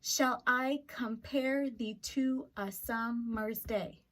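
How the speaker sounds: "Shall I compare thee to a summer's day?" read slowly, each second syllable leaned on; da-DUM rhythm on "summer's day"; iambic reading. Shown as a demonstration. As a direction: measure out the iambs unhurriedly. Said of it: "he says".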